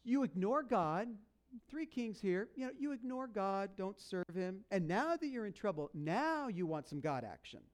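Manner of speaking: mildly indignant, deliberate scolding; pointed telling-off with a touch of sass; showing some attitude. Acted. Elisha to kings who ignored God, showing attitude. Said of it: "so he shows some attitude".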